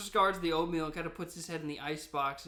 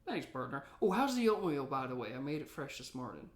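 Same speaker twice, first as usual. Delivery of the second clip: a hint of a grizzled gold miner; old prospector voice. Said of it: "and then there's Old Prospector".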